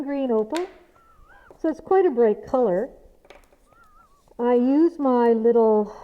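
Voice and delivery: muffled speech behind a dust mask; through a face mask. Real, not acted. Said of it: "this is what I sound like with a mask on".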